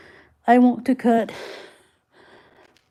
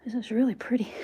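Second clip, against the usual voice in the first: whisper; 4 dB quieter than usual. Real, not acted. Whispering while looking at rock.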